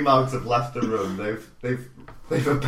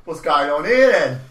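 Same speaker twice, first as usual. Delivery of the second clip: put-on Cockney accent; 5 dB louder than usual. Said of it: "Is it in a Cockney accent?".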